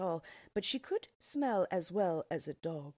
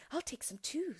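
put-on girl voice; 9 semitones higher than usual. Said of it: "said Gretel".

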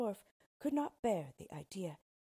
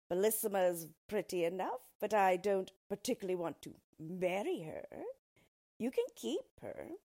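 lightly voiced sly little dwarf, pitched up; a small creature greeting the queen; yellow dwarf; 5 dB louder than usual. Dwarf greets the frightened queen, lightly voiced sly.

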